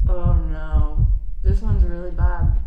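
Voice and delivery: loud. Real, not acted. Hottest sauce pain.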